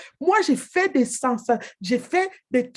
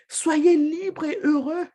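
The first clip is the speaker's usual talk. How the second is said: joyful rallying shout; 4 semitones higher, slower than usual. Real, not acted. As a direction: lift the whole room with it. Rallying call after laugh.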